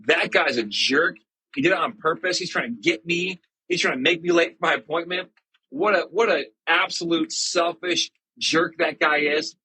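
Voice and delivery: playacted outrage at a jerk; mock indignation. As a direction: complain like a slighted driver. Imagined indignant reaction to being cut off.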